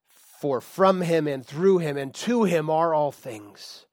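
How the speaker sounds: slow, measured scripture recital; slow scripture quote. Acted. Pastor quoting Paul to the church, slow and solemn. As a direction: let each phrase land.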